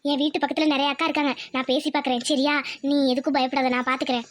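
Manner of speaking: low, calm reassurance; reassuring. Acted. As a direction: soothe a frightened friend. Reassuring a frightened school friend.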